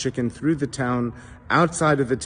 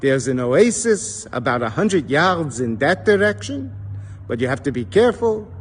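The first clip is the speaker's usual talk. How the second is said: put-on elderly Jewish man; 3 semitones higher than usual. Old man directing a thirsty traveller, Yiddish accent. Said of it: "The elderly Jewish man looks at him and says".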